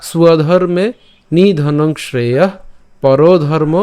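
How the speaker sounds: slow, deliberate shloka phrases with pauses; measured Sanskrit diction; Sanskrit verse recitation. Shown as a demonstration. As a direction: recite the closing half-verse as a careful model. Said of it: "যেহেতু আমরা এখানে উচ্চারণ করেছি".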